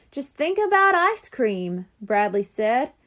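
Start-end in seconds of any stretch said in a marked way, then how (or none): 0.1-1.9 voiced boy. Bradley voiced differently.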